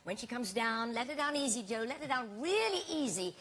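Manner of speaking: calling out. Retold or imitated. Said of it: "I heard the word go back".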